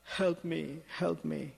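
half-hearted wail for rescue; crying out for help. Retold or imitated. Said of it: "he's crying out".

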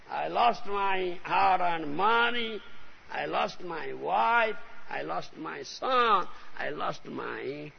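slow, heavy mock lament; lamenting man. Preacher voicing a worldly man lamenting his losses, slow mock grief. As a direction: drag out each loss like a grieving man. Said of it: "Then he cries".

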